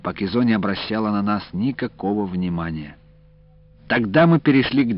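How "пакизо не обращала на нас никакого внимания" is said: usual speaking voice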